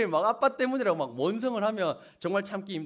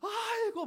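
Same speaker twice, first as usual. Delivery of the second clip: high keening aigo; 13 semitones higher, 6 dB quieter, slower than usual. Shown as a demonstration. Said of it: "땅을 치며 통곡하는 겁니다".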